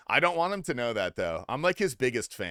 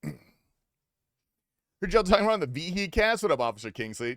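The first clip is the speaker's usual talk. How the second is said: gruff put-on voice; 3 semitones higher, 4 dB louder than usual. Chatter greets a new arrival.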